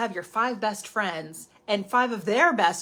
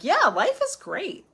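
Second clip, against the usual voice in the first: higher, louder, slow dreamy yeah; mock blissful agreement; 8 semitones higher, 6 dB louder, slower than usual. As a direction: gush along in blissful agreement. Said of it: "people who are like".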